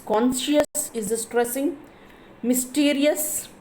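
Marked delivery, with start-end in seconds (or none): 2.4-3.5 mysterious said slowly and higher, STERIOUS stressed. Shown as a demonstration. Teacher showing students the stress, mysterious with STERIOUS lifted. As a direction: lift and stretch the STERIOUS in mysterious. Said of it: "mysterious is the stressing".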